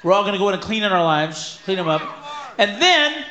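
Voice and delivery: crowd rallying cry; rallying yell. Pretend. Rallying shout to fellow audience.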